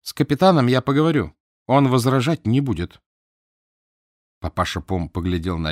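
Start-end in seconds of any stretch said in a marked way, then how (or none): 0.0-3.0 firm and louder, steel in the voice; firm, steely. Acted. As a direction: set it down with iron resolve. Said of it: "прибавила с железом".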